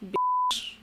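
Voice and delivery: very high squeaky mock squeal; squeaky exclamation.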